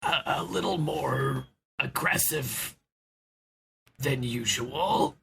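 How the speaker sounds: slow, halting, tentative; careful phrasing. Acted. Knack tactfully confronting Oswald, slow and hesitant. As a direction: pick each word gingerly and slowly. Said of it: "thinks of how to phrase it".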